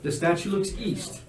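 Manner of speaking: measured game master description; scene narration. Acted. Game master describing a dragon statue, measured narration.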